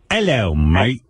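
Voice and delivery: mock British greeting; British accent. Shown as a demonstration. Host shows his guest how British sounds, British accent. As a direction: try out a British "hello, mate". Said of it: "You can't do British?".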